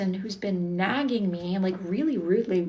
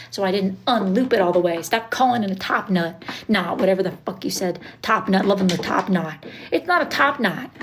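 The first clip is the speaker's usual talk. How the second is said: annoyed rant; 4 dB louder than usual. Real, not acted. Annoyed rant at chat comments.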